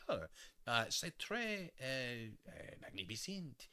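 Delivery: hammed-up Quebec accent; mock Quebec accent. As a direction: stretch it out like a pompous Quebec speaker. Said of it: "what they were saying is like".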